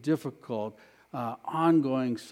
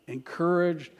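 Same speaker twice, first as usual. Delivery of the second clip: leading congregational repetition. Shown as a demonstration. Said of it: "Someone say that with me".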